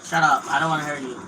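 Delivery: loud snap at a teammate; angry shout. Real, not acted. Gamer yelling at a teammate on voice chat, loud. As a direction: cut him off loudly.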